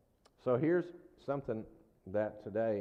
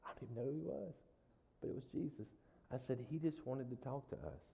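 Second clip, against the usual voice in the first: hushed awe; 3 semitones higher, 8 dB quieter, faster than usual. Retold or imitated. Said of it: "And I was like".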